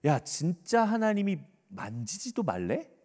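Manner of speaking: slow, insinuating question; sly tempter. Acted. Serpent asking Eve what God really said, slyly. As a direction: plant doubt with a drawn-out rising question. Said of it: "뭐라고 교묘하게 섞냐면요".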